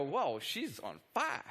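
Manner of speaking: slow, drawn-out mock American accent. Presenter reacting to Roxy's message, put-on American accent. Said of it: "that was my best American accent".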